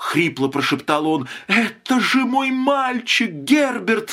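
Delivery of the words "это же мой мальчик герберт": very high-pitched crying out. Reading a story aloud, a wife pulling free of her husband's grip exclaims. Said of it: "воскликнула жена".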